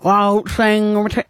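mouthful of shepherd's pie; mouth full. Shown as a demonstration. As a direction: talk through a mouthful. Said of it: "like I'm saying it with a mouthful".

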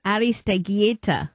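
Aristeguieta imitated as ah-ris-teh-GYEH-tah; copied surname pronunciation. Host repeating after guest, Aristeguieta in imitated Spanish. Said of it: "pronounce your last name".

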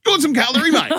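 son's eager voice offering a knife and fork; son offering cutlery. Retold or imitated. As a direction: play the helpful thirteen-year-old. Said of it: "Elijah's like".

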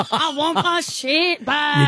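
hammed-up shepherd wanting his sheep back; Irish farmer slipping Scottish. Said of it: "You're going Scottish".

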